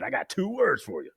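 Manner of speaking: hammed-up slow announcement, "Praline cookies" drawn out; mock dramatic quote. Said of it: "when he said".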